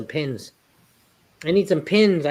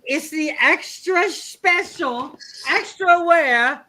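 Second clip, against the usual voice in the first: put-on Asian accent; 8 semitones higher, slower than usual. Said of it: "Say that with the Asian accent".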